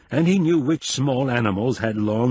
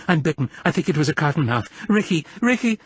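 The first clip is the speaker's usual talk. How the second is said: high, fast panicked rush ending in cries; hysterical panic; 5 semitones higher, faster than usual. Acted. Bitten woman panicking and calling for her husband, high. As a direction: rush the words in panic, then call out high. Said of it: "she cried hysterically".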